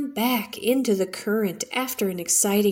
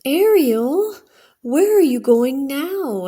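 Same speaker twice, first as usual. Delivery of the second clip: higher, louder call across the water; calling after; 5 semitones higher, 5 dB louder than usual. Acted. Adrena calling after Ariel swimming toward rocks, raised anxious call. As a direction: call her back, a little anxious.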